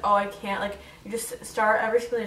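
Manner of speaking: normal talking voice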